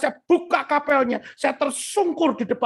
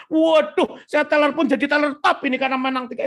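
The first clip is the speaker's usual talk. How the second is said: boastful self-mockery; 4 semitones higher than usual. Winner marvels at his own triple victory, boastful. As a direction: rush out the brag, mocking yourself. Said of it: "Itu masih sombong seperti itu loh".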